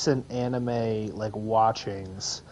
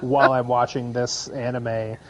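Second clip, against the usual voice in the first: loud, fast and laughing mock panic; half-laughing, hammed-up teen dread; 4 dB louder than usual. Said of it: "think about was".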